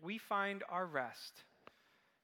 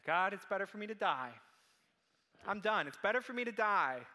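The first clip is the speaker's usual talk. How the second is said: louder, bitter plea to die; despairing Jonah; 2 semitones higher, 6 dB louder than usual. Acted. Preacher voicing Jonah begging God for death, loud. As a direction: throw the words at God in despair.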